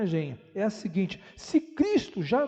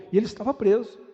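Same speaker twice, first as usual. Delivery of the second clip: loud, raised declaration; emphatic; 5 dB louder, faster than usual. Real, not acted. Preacher on Paul in chains, emphatic and loud. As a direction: drive the irony home loudly.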